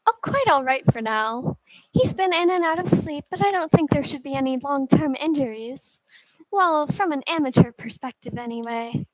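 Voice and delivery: a hint of an amateur medic reporting; lightly voiced caretaker. Caretaker updating a friend on the patient, lightly voiced.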